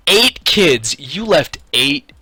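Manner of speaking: imitating a shocked store clerk; stunned disbelief. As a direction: spell it out slowly, stunned. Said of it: "And she's like".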